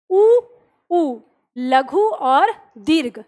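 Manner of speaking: उ stretched slowly, then लघु और दीर्घ spelled out; slow drawn-out vowel demo. Shown as a demonstration. Teacher to students, demonstrating the vowels, slowly. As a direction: draw out each sound for the class.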